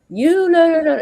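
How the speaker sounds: sudden high, loud brush-off; high dismissive no. Retold or imitated. Retelling how the friend waved her off while texting, high and loud brush-off. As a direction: wave him off in a quick high rush, mock-impatient.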